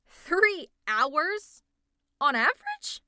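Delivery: shocked, high-pitched yell; loud, aghast outburst. Acted. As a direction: shout it in sheer disbelief. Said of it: "I didn't mean to raise my voice".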